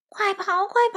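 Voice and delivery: trembling bear's alarmed shout; panicked shouting. A narrator's reading. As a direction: yell for everyone to flee. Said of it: "艾迪熊一边喊着".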